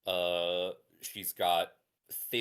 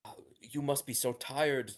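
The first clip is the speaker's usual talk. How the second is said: whispered comfort; 6 semitones higher than usual. Acted. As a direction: hush it like a worried mother. Mother comforts tired child.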